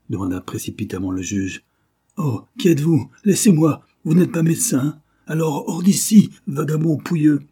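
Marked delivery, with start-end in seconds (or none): 2.2-7.4 high, loud furious shouting; furious outburst. Acted. Duke to the judge at his bedside, furious loud shouting. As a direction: throw the stranger out with rage.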